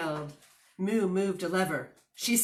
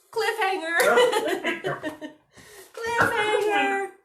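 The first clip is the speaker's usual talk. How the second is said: playful tease; 12 semitones higher than usual. Acted. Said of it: "reader teases listeners".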